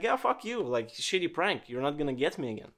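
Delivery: a high sneer on "Yeah", then a quick brush-off; scornful dismissal. Acted. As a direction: scoff at the prank, not falling for it. Friend scoffs at supposed prank.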